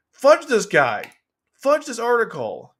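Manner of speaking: high, slow, drawn-out cursing; exasperated outburst. Real, not acted. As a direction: stretch out each mild curse in frustration. Dismisses the article in exasperation.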